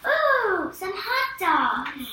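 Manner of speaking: ooh up high and loud, then the words slowed right down; thrilled little exclamation; excited ooh. Pretend. Child offers an exclamation sentence, excited.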